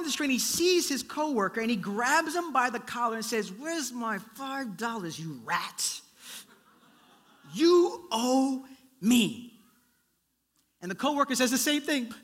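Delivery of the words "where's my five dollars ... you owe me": menacing. Acted. Grabs coworker by the collar.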